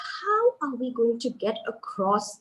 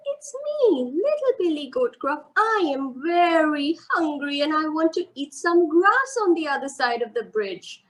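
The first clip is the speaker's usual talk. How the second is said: high, small little goat voice; lightly voiced tiny goat; 4 semitones higher than usual. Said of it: "the little billy goat Gruff said".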